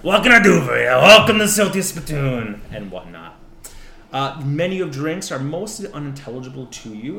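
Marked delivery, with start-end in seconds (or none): 0.0-2.6 loud, high New York barkeep; brash New York bartender greeting; New York accent. Acted. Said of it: "you basically hear that typical New York accent".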